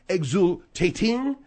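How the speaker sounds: "Exultating" slowly in mock French; French pronunciation. Host hunts for the French word "Exultating", mock French. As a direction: stretch "Exultating" out as fake French. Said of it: "what's the French?".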